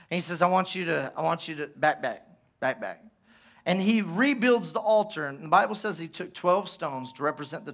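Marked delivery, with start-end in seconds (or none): 0.4-3.0 low, soft, understated instruction; quiet command. Acted. Elijah moving people from the altar, low quiet order. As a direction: ease them away in a low murmur.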